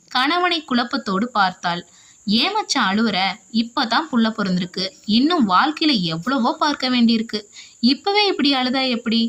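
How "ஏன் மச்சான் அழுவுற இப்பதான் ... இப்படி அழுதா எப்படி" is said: quick, light ribbing of the brother-in-law; playful mock scolding; teasing. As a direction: tease him for crying, a bit fast. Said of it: "கிண்டலாக".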